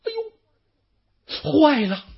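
high, loud alarmed outcry; panicked cry. Acted. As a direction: shout as the trap springs shut. Yuan Shao realizes he is trapped. (惊慌大叫)

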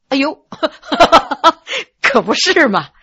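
laughing, tickled at himself; happy laughter. Acted. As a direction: laugh it off warmly. (开怀笑着说)

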